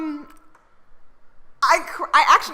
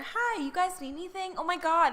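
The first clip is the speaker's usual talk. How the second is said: receptionist voice; 2 semitones higher, 8 dB quieter than usual. Pretend. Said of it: "Receptionist Kyra".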